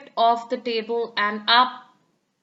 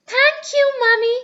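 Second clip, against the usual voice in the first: happy; 13 semitones higher, 7 dB louder than usual. Acted. Peppa's grateful call.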